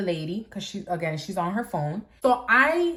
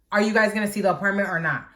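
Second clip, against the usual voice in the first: irritated man; 4 dB louder, faster than usual. Retold or imitated. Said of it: "but he's angry".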